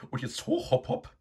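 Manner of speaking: high, loud bossy order; commanding. A narrator's reading. Sow ordering Eduard out of bed, high and commanding. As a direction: chase him up like a drill sergeant. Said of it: "befahl Begonia".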